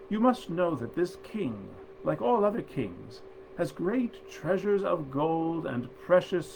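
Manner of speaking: brighter, livelier storytelling voice; story narration. A narrator's reading. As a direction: read it like a bedtime fairy tale. Reads the fairy tale aloud.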